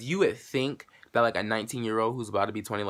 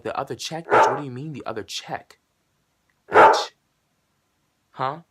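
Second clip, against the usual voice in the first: incredulous retort; 7 dB louder than usual. Retold or imitated. Retold indignant reply to clerk.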